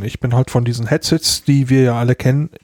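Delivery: frog in the throat, rushed words. Real, not acted. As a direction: talk past a frog in the throat. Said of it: "ich hab einen Frosch im Hals".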